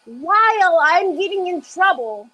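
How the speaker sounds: amused high. Real, not acted. Laughing about son.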